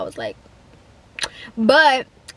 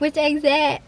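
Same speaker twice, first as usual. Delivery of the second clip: mildly scared question, slightly higher; scared, shaky voice; 4 semitones higher than usual. Retold or imitated. Nervous learner asking the examiner, scared and shaky. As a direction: imitate your own small, nervous asking. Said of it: "my little was sc-, scared, shaky voice".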